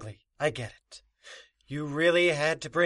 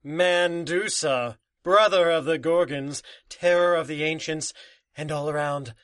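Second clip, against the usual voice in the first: villain's grand introduction. Acted. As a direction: draw out the name with menace. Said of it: "it is indeed Mandusa".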